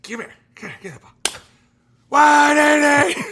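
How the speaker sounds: high, loud barking orders; impatient coach. Retold or imitated. Coach demanding balls at the tryout, high and loud. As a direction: bark at the ball thrower. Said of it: "He's like".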